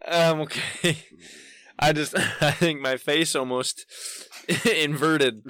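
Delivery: recovering from a laughing fit; gasping through leftover laughter; after laughing hard. Real, not acted. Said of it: "my cheeks hurt".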